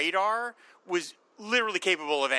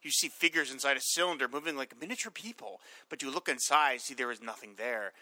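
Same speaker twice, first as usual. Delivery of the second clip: reading text aloud; 2 semitones lower than usual. Acted. Reading the comic's hologram text piece to his cohost, lightly dramatic. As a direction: read it like a dry science pamphlet. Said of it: "two-page text piece talking about the holograms".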